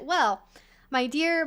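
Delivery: usual speaking voice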